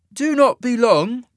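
measured warning. A narrator's reading. Isaac caution, measured.

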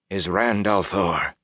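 shivering through chattering teeth. Acted. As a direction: force it out while freezing. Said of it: "forced between chattering teeth".

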